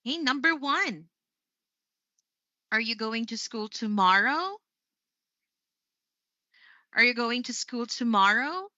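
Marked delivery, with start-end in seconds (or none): 2.7-4.6 yes-no question tune, lifting on "tomorrow"; rising intonation. Shown as a demonstration. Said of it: "the rise of my voice was done at the end". 6.9-8.7 yes-no question tune, lifting on "tomorrow"; rising intonation. Shown as a demonstration. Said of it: "the rise of my voice was done at the end".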